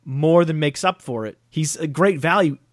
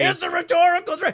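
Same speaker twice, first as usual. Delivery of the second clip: high, teasing self-mocking tone; sing-song put-on voice for a self-aware jab. Repeats own phrase in mock voice.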